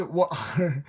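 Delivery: British "What are" with a clearly sounded T; British accent. Shown as a demonstration. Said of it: "in British, you say".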